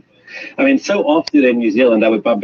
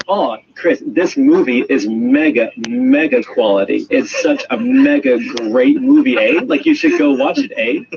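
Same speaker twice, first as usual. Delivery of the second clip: put-on high, drawn-out Canadian mixed Kiwi accent; 12 semitones higher than usual. Imitating the Ottawa uncle recommending a movie, Canadian-Kiwi accent. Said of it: "like, Canadian mixed Kiwi accent".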